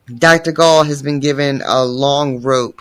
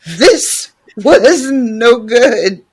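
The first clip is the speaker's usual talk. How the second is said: slow grim line; 7 semitones higher, 4 dB louder, slower than usual. Acted. Grim narration, slow and high.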